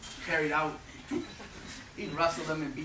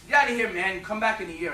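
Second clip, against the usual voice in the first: louder, higher gruff coach dismissal; 4 semitones higher, 6 dB louder than usual. Retold or imitated. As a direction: shoo the kid away. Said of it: "he wanted to kick me out".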